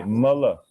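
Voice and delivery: "mala" said MUH-luh; "mala" modelled crisply as MUH-luh; short a vowels. Shown as a demonstration. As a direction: say "mala" with two short uh sounds. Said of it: "A is always a".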